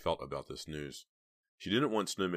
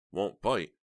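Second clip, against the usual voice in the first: higher, louder incredulous echo; furious disbelief; 4 semitones higher, 6 dB louder than usual. A narrator's reading. Heather echoes his words in her head, furious. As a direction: throw it back in angry disbelief. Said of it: "so furious she could barely contain herself".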